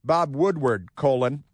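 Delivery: reading out the headline, colon and all; mock headline read. Shown as a demonstration. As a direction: announce it like a news banner. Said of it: "They love their colons".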